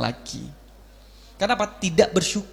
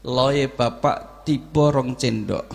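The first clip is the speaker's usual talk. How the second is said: gentle parent telling; 6 semitones lower, much slower than usual. Retold or imitated.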